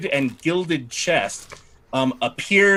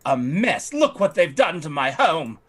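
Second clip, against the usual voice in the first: a slightly raised, haughty lady's voice; fussy noblewoman; 3 semitones higher than usual. Acted. Lightly raised voice as the lady fretting to the party about her estate. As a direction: play the put-upon aristocrat lamenting her estate. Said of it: "she says".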